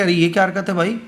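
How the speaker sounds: mildly outraged, as if confronting a wrongdoer; angry protest. Retold or imitated. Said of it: "موسیٰ علیہ السلام کو غصہ آ گیا". (ہلکے غصے میں احتجاج)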